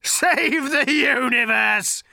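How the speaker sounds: slow loud scornful cry; contemptuous. Acted. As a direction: spit the words with contempt. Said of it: "spat Agrajag with contempt".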